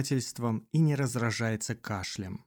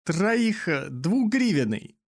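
rattling voice; 6 semitones higher, slower than usual. A narrator's reading. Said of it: "дребезжащим голосом горбач".

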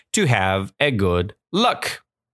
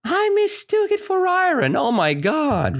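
much higher, amazed and delighted; happy amazement; 13 semitones higher than usual. Retold or imitated. Teacher voicing the old woman's joyful surprise, high and amazed. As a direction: squeal with happy disbelief. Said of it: "she's saying that".

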